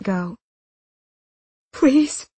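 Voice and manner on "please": higher-pitched plea; beg, voice lifted; pleading. A narrator's reading. Woman begging man not to let go, pleading.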